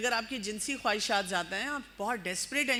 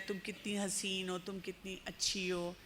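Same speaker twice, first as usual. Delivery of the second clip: soft, slow, honeyed flattery, much softer; soft slow lover's sweet talk; 5 semitones lower, 6 dB quieter than usual. Retold or imitated. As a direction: coo it like a smooth-talking admirer. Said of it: "اتنی پیار سے کہتا ہے".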